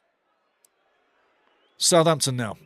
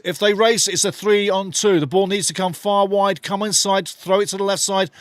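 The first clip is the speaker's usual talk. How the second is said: excited call; 5 semitones higher than usual. Real, not acted. Counterattack building.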